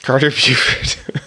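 Carter Buford, slow and drawn out, laughing; drawn-out name. Pretend. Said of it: "I like saying Buford".

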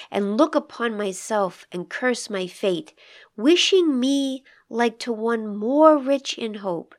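slow, measured recitation of a sonnet; poem reading. Acted. Host reading the sonnet aloud to the listeners, slow and measured. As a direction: read the lines slowly and gravely.

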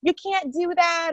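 high calling out whoa to stop them; retold shout. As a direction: hurry over calling them off. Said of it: "And she's like".

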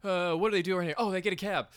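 hammed-up nervous tourist begging a cab; mock panicked tourist. Terrified couple begging the cab driver, mock frantic pleading.

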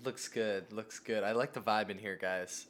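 hushed low studio-vibe voice; soft and low, savor the vibe; overexcited recording artist. Pretend. Plays the recording artist too.

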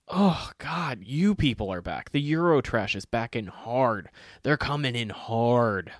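hammed-up exasperation; mock disgust. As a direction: groan it, slowing at the end. Mock complaint about tourists.

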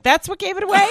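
high-pitched disbelief, laughing; laughing, incredulous question. Retold or imitated. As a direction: react in mock amazement. Mock-amazed retort to caller.

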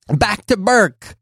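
high, slow drawn-out title; slow mock announcer; slow intro voice. Shown as a demonstration. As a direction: stretch out the show name like a sting. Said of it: "Did I say it like that?".

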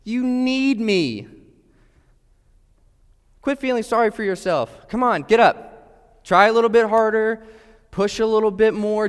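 high, loud drill-coach voice pushing him harder; imagined Jesus as a demanding trainer shouting encouragement; pushy coach. Pretend. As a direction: bark it like a coach driving a weak athlete. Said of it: "Maybe some of you think he's gonna say".

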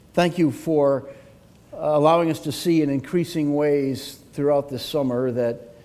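low, subdued pastoral prayer. Real, not acted. Pastor praying to God for his congregation, reverent prayer.

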